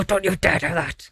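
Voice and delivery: slow, low stern warning; a hint of a strict parent; stern whisper threat. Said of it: "It's go".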